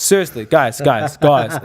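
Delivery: put-on pleading in a hammy British accent; badly faked British appeal to the group; terrible British accent. British pledge pressing the others, bad British accent. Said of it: "This is my terrible British accent".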